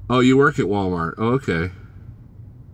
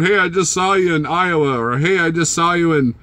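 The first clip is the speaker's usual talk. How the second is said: mimicking viewers; 6 semitones higher than usual. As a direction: imitate eager fans. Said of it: "people text going".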